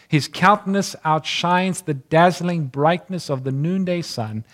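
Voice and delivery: lifted, measured reading of scripture; solemn reading. Acted. Preacher reads the prophecy to his congregation, solemn and lifted. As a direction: read it out like holy prophecy to the congregation.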